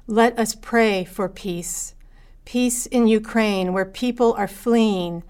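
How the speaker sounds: calm prayerful reading. Acted. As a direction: lead the congregation gently in prayer. Leads a prayer for peace.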